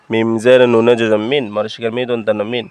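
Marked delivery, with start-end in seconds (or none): 0.1-1.4 মিন ending on a clear dental n. Shown as a demonstration. Teacher spelling for learners, clear n closing মিন. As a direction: say মিন with a plain n at the end. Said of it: "নুনে জজমের উচ্চারণ দন্তান্ন হবে".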